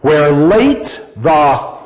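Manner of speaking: "late" drawn out in "Where late the"; slow, with the weight on "late"; marking the accents. Shown as a demonstration. Teacher moving along the line's accents, "late" stressed. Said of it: "that double accent".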